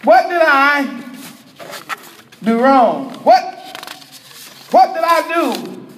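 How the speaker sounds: halting, insistent questioning; Yah demanding answers. Acted. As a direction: press for an answer, pausing between phrases. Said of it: "That's Yah talking".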